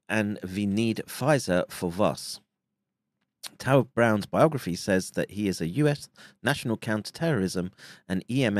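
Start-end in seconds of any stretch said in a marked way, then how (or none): 0.1-2.4 slow mock Yiddish accent; a lightly done Yiddish voice. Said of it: "said in a Yiddish voice".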